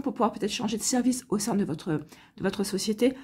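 real morning hoarseness, slightly rough; hoarse voice. Real, not acted. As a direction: speak through a hoarse throat. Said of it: "j'ai la voix enrouée ce matin".

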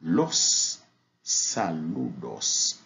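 slow clear Spanish "saludos", each syllable full; teacher models "saludos" for French learners, slow and clear; Spanish word. Shown as a demonstration. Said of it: "Ici, on dit".

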